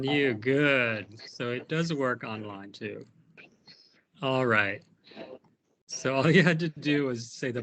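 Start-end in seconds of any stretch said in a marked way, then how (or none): 1.3-3.1 whispered aside; whispering. Real, not acted. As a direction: whisper it to yourself. Aside to self.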